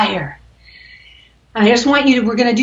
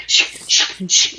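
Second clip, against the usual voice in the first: breath of fire shush; slower than usual. Shown as a demonstration. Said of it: "breath of fire".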